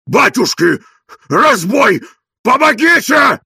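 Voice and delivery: mock-panicked yelling for help; crying for help. A narrator's reading. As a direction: holler for help. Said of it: "кричал Тарантьев".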